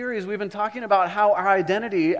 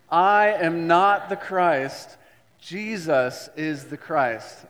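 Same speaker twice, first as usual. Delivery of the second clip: slow, louder declaration; louder recitation; 5 dB louder, much slower than usual. Shown as a demonstration. Pastor leads congregation in louder confession. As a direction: say it louder like you mean it. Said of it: "Louder like you mean it".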